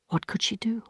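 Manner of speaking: whispered, breathless with dread; despairing whisper. A narrator's reading. Emma whispering to herself over the debt.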